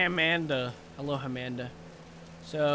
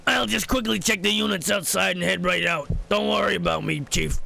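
light put-on working-class accent. Gamer voicing the repairman with a light put-on accent. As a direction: voice the repairman casually. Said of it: "I should do an accent for him".

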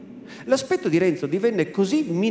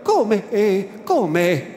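almost scornful; 3 semitones higher, 5 dB louder, much slower than usual. Acted. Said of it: "Rispose con voce quasi sdegnosa".

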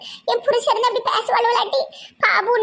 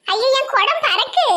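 dismayed cry; 5 semitones higher, slower than usual. Acted. Her water pot knocked flying.

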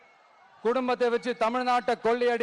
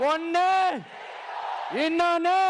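louder repeat; 5 semitones higher than usual. Shown as a demonstration. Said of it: "first take quieter".

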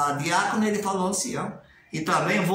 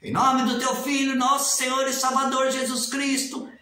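slow, higher, solemn prayer chant; formal congregation prayer; 6 semitones higher, slower than usual. Retold or imitated. Critic mimicking the rote opening of a congregation prayer, slow and solemn. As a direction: intone it like a church elder praying. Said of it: "nesse estilo aqui".

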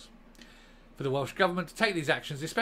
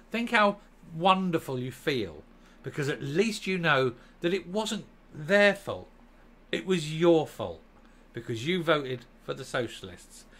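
sarcastic. Real, not acted. Mock cheer to voters.

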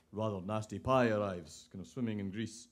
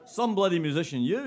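loud, higher-pitched rebuke; angry scolding; 6 semitones higher, 8 dB louder than usual. Acted. Bettor who lost berates the octopus, angry scolding. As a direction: lay into him with scorn.

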